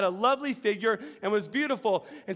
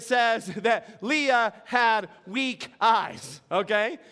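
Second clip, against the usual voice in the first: laughing; much slower than usual. Real, not acted. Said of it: "that was fun".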